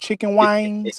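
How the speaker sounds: slow "chicken wings", wings stretched toward "wangs"; Southern twang. Shown as a demonstration. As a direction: draw out "wings" in a country drawl. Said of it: "that's what I mean".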